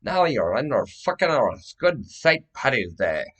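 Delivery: play-acted arrest orders. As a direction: order a suspect about, loud and forceful. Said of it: "and say".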